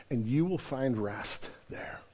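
slow, soft whisper; whispered tender promise. Acted. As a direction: lay the promise down gently.

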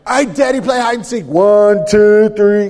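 put-on high, loud little kid calling out the count; high squealing toddler counting loud; excited toddler voice. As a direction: bounce it like an excited two-year-old. Twins voiced calling dad to play.

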